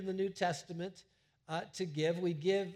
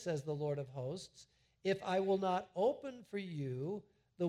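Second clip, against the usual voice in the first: voicing the Lord; 2 semitones higher than usual. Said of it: "So the Lord is saying".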